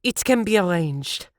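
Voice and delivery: a touch of high angry threat. A narrator's reading. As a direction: Siv threatening the man, mild anger. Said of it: "Siv said angrily".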